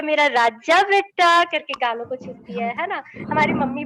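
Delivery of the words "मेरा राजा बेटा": slow, doting grandma coo, lightly voiced; a hint of a fond granny, drawn out slowly; loving grandma. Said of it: "बड़े प्यार से बोलती है".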